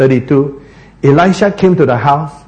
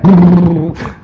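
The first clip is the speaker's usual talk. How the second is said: fast-ride noise; 4 dB louder than usual. Shown as a demonstration. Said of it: "and the faster the horse ride".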